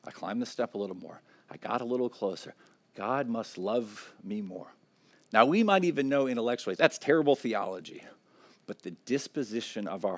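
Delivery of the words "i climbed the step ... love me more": quieter, mildly smug inner voice; a touch of pride in the climb; self-satisfied believer. Retold or imitated. Preacher voicing a believer's smug inner thought. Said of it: "The tendency is gonna say".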